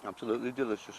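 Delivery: speaking while chewing apple; words round a bite; mouth full. Real, not acted. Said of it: "I'll have another crunch".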